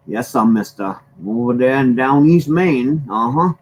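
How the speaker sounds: broad Down East Maine accent, lifting at the end; thick Down East accent. Shown as a demonstration. Mainer showing how Down Easters talk, thick Down East accent. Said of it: "has this accent, but ten times worse".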